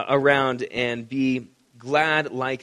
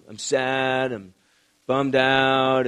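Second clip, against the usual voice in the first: mildly mopey, put-on gloom; mock bummed-out; much slower than usual. Imitating a Christian that's bummed out, mock glum. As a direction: drag it out like a half-hearted sulk. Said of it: "a Christian that's bummed out".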